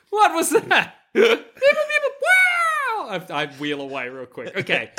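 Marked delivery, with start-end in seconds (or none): 0.1-0.9 high gruff alien boss; Jabba voice. Acted. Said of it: "And Jabba being like". 1.1-3.1 very high robotic beeping; droid beeps. Acted. Voicing a droid.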